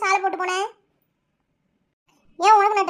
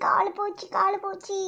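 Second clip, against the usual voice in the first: groaning in pain.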